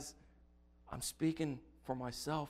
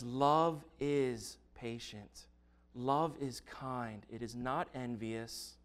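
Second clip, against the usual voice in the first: scripture reading. Acted. Reads First Corinthians thirteen aloud.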